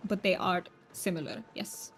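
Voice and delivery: strong Romanian accent, close to stereotypical Russian; hammed-up Romanian accent for fun; Romanian accent attempt. Shown as a demonstration. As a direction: speak English with an exaggerated Romanian roll on the R's. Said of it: "that sounds very Russian".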